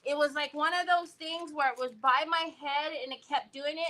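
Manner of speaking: ordinary talk, nothing marked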